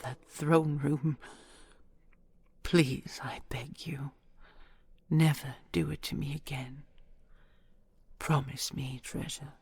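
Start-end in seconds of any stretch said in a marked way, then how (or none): 3.2-6.8 urgent, hushed pleading whisper; tender whisper. Acted. Dragon begging her beloved in a whisper.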